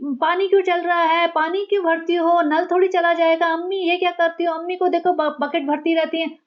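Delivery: high, nagging mock whine; whiny nagging daughter. Mocking the daughter fussing over her mother's water use, high and whiny. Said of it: "चूं चूं चूं चूं कर रही थी".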